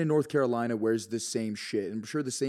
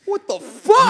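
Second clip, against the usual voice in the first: mock baffled viewer; 13 dB louder, slower than usual. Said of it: "who the fuck is this guy".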